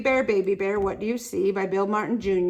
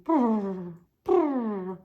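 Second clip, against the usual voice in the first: kitten purr; 2 semitones lower than usual. Acted. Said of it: "Purr like a kitten".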